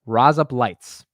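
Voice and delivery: slow, drawn-out Australian accent. Shown as a demonstration. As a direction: try it slowly in an Australian accent. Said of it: "in an Australian accent".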